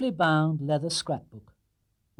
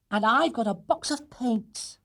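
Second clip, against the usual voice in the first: put-on higher, slow delighted girl; higher girl's voice, pleased; excited girl; 10 semitones higher, slower than usual. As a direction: show off the gift happily. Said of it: "exclaimed Judy".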